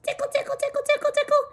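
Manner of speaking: high soft tickle tickle; tickly. Acted. Whiskers tickling the bear.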